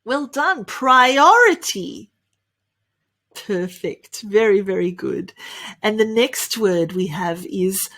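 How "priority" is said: PRIORITY slowly, pry-OR-ruh-tee; slow PRIORITY with stressed second syllable; model pronunciation. Shown as a demonstration. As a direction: lift the OR in PRIORITY. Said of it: "the way to pronounce this is".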